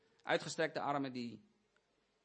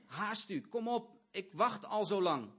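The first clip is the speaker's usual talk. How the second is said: eager call; 4 semitones higher, slower than usual. Acted. Jesus eagerly calls Zacchaeus.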